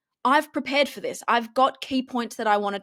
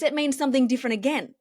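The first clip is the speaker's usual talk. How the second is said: higher smiling tone; 3 semitones higher, faster than usual. Shown as a demonstration. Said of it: "with a bit of a higher tone and a smile on my face".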